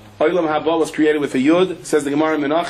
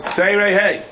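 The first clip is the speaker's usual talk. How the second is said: lightly raised quizzing voice, prompting the vowel; rabbi quizzing; 6 semitones higher, slower than usual. Retold or imitated. Rabbi prompting the boy for the vowel, lightly raised. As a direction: ask it like a patient teacher. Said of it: "He goes".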